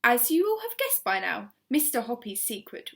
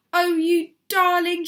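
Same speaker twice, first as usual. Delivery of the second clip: high, loud doting cry; delighted cry; 7 semitones higher, 11 dB louder than usual. A narrator's reading. Missus Silver cooing at Alfie, delighted cry. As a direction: gush over the tortoise. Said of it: "she cried".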